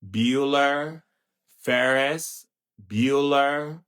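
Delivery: droning teacher. Retold or imitated. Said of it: "I go back to Ferris Bueller's Day Off".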